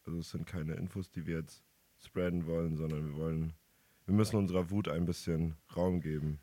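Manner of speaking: rough, hoarse voice after shouting; hoarse, worn-out voice. Real, not acted. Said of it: "warum bist du denn so heiser?".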